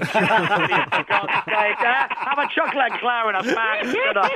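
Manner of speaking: laughing. Real, not acted. Laughing while telling caller off.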